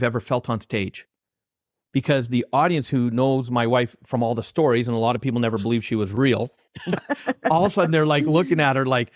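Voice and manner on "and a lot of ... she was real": a quick line broken by real laughter; laughing through it at his own story. Real, not acted. Host telling of his wife, laughing as he speaks.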